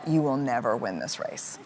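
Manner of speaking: low, soft, matter-of-fact confirmation; calm agreement. Retold or imitated. Mother answering her sobbing daughter, calm and frank.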